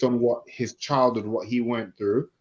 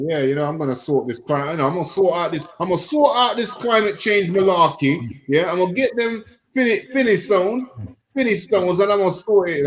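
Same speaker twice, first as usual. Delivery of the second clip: excited dad; 6 semitones higher, 3 dB louder than usual. Retold or imitated. Imitating dad fixing climate change.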